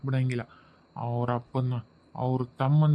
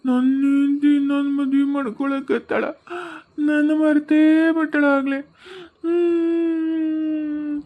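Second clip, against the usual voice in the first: higher, tearful wailing with long drawn-out sobs; crying; 8 semitones higher, much slower than usual. Acted. Ghost weeping to his friend that his wife is remarrying. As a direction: sob out the grief of being forgotten. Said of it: "ಯಾಕ್ ಹಿಂಗ್ ಮಕ್ಕೊಂಡ್ ಅಳಕತ್ತಿದಿ?".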